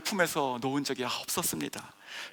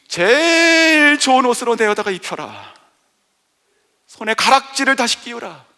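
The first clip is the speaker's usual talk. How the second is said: loud, slow commanding proclamation; father loudly orders his servants to prepare a feast; 5 semitones higher, 7 dB louder than usual. Acted. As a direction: call the servants to action. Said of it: "이렇게 큰 소리로 명합니다".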